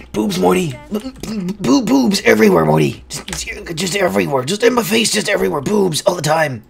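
excited stammering cartoon rant; stuttering cartoon scientist. Cartoon scientist telling Morty about boobs, excited stammer. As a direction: stutter and burst like a mad scientist.

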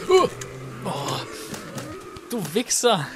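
loud high furious curse; angry shout. Real, not acted. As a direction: yell the curse out. Monster catches him.

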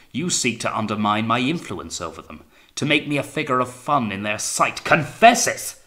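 ranting, building to a high shout; angry accusation. A narrator's reading. Captain demanding Wellard's confession, increasingly furious. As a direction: build loudly to an explosive command.

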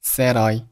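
"said I" joined as one word; linked words. Shown as a demonstration. Teacher showing learners linking, "said I" run together. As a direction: carry the d of "said" into "I". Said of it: "said和I连读成了".

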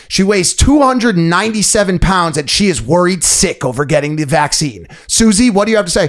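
mock newscaster. Newscaster mocking Susie on air, hammed-up reporter voice. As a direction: play a snide TV reporter. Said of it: "the newscasters be like".

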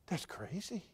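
a stunned whisper. Retold or imitated. Preacher whispering his stunned reply to the director. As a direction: breathe it, no voice.

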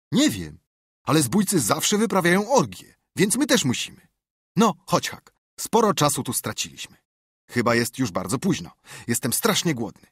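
bubbling over at the treasure; thrilled boy. Acted. Tomek's voice in story.

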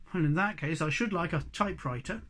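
mildly sulky; grudging request; a touch of a sulk. Acted. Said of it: "said the Snork sulkily".

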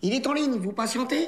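working-class Parisian receptionist line; slipping Parigot accent. Acted. Trainee practising the hold line for the boss, Parigot accent. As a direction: let the Parigot twang slip into it. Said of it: "L'accent, l'accent".

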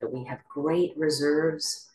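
measured meditation guidance with long pauses; guided meditation. Real, not acted. Teacher leading the group into posture and breath, guided meditation. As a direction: guide them gently into stillness, phrase by phrase.

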